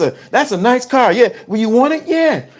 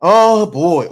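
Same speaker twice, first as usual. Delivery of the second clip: normal talking voice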